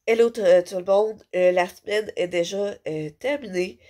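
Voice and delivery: stuffy voice from a head cold; blocked nose. Real, not acted. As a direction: talk through a blocked nose. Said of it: "j'ai le nez bouché".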